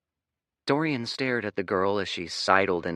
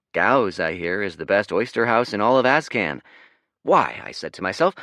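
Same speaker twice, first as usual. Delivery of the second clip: louder, showy rich traveler; pompous merchant; 5 dB louder, faster than usual. Acted. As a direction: lay on the grand merchant act. Dorian plays wealthy merchant.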